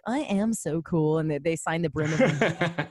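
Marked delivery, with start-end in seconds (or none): 0.0-1.2 slow retold boast, held in; measured, understated self-congratulation; self-satisfied. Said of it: "And I was like".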